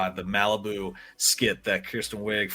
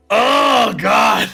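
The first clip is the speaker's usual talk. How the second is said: sudden high, loud "Oh, God!"; real startled shout; 10 semitones higher, 13 dB louder than usual. Real, not acted. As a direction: blurt it out, caught off guard. Startled outburst on a podcast.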